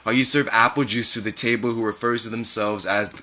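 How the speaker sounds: measured, expressive literary reading; story narration. A narrator's reading. Author reading a memoir to an audience, measured story narration. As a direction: read it as a spoken-word memoir.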